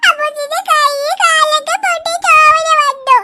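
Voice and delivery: put-on crying child. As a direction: whimper it out to dad. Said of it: "കരയല്ലേ". (അച്ഛനോട് പരാതി പറയുന്ന കുട്ടി, കരച്ചിലോടെ)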